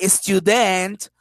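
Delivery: "student" stressed on the last syllable, stu-DENT; wrong final stress. Shown as a demonstration. Teacher showing the class what we don't say, end-stressed. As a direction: slowly lean on the DENT of "student". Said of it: "We don't say, like".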